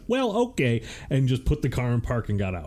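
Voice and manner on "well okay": a high, startled cop voice; surprised cop. Retold or imitated. Cop hearing about the gun, mock high startled reply. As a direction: mimic the cop caught off guard. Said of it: "And he went".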